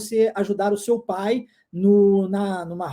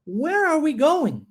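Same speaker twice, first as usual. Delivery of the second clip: "Where are we going?" said slowly, pitched higher; slow model; 6 semitones higher, slower than usual. Shown as a demonstration. Teacher models the full question for students to repeat. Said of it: "vamos tentar agora, todinha?".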